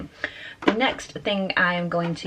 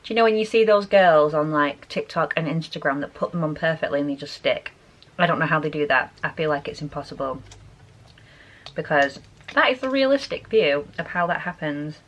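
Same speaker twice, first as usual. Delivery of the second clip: lisp; 2 semitones lower than usual. Real, not acted. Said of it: "now I'm talking with a lisp".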